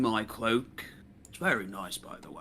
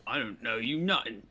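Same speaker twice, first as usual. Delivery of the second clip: character voice; faster than usual. Acted. Player voices Daka in character.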